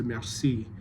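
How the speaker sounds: "Merci" said mer-SEE; end-stress "Merci" the French way; stress on second syllable. Shown as a demonstration. Coach contrasts the unwanted scansion, second-syllable stress. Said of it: "where the emphasis is on the second syllable".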